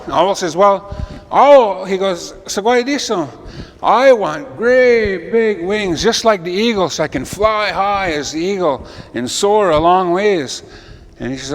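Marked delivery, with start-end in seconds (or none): 0.5-10.6 high owl voice stretching out the wish. Acted. Owl asks the creator for eagle wings, high.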